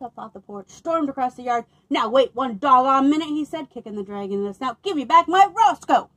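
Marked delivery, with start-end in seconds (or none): 1.9-3.3 loud, indignant protest; the farmer confronts the dragon; angry farmer. Acted. 4.8-6.1 loud, higher demand; the farmer demands his dog from the dragon; angry demand. Acted.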